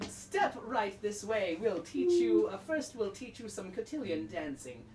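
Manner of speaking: a hint of a dance mistress ushering pupils in; lightly played formal hostess; lightly voiced stern instructor. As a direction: usher them along, drawing out the invitation.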